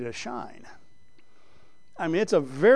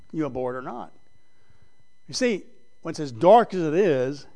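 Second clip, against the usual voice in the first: usual speaking voice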